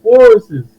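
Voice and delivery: "forces" with an extra -es syllable, loud; accented pronunciation. Shown as a demonstration. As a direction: hit "forces" as two syllables ending in -ces. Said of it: "put forces on there 'cause of my accent".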